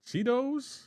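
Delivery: high, rising incredulous question; puzzled squeal of disbelief, put on; mock bafflement. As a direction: act as if the word is totally foreign. Mock disbelief at others' pronunciation.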